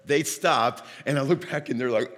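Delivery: normal talking voice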